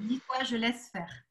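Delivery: slow, quiet reassurance; calm her down gently; soft guiding voice. Shown as a demonstration. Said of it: "guiding the exercise, slow and soft".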